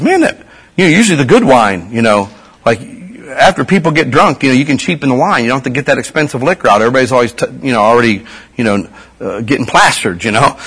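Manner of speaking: lightly voiced party host, casual; a hint of the feast master explaining; governor's voice. Preacher voicing the governor to the congregation, casual.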